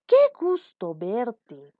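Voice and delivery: lenta y más fuerte, con gusto; alegre exclamación. Shown as a demonstration. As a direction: saludar con alegría, despacio. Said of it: "Por ejemplo". (exclamación de sorpresa alegre)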